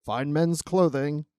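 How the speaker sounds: slow, measured floor announcement; lightly voiced elevator attendant, drawn out; elevator operator. Operator announcing a department store floor, slow mild announcer voice. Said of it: "somebody running the elevator".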